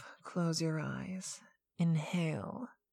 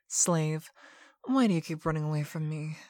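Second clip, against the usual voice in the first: faster, louder pointed question; pressing demand; 4 dB louder, faster than usual. Acted. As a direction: push the question at her. Dominant demands why pet runs.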